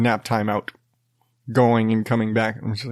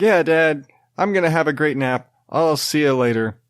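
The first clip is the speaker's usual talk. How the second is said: imitating son; 3 semitones higher than usual. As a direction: lightly play the happy toddler. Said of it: "'Cause he talks just like that".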